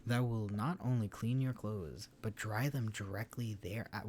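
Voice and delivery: loud, salesy product pitch; cheesy announcer voice. Acted. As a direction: oversell it like a TV ad. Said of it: "cheesiest announcer voice".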